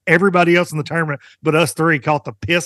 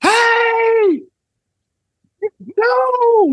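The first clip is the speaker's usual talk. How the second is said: marshal yelling. Retold or imitated. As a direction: yell it like a scared marshal. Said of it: "marshal goes".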